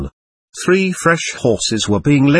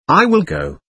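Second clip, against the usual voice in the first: cried out; 7 semitones higher than usual. A narrator's reading. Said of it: "she cried".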